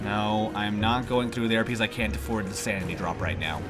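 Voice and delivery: stuffy-nosed nasal voice from allergies. Real, not acted. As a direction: talk through a blocked, nasal nose. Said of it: "I sound really nasally right now".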